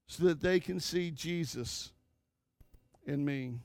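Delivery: soft, hushed pleading prayer; quiet prayer. Retold or imitated. Preacher models a father's prayer for his children, soft and hushed. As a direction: pray it softly, heart open to God.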